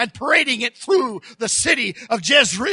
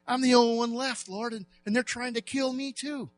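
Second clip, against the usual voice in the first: lightly voiced Elijah complaining; 6 dB quieter than usual. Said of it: "He says".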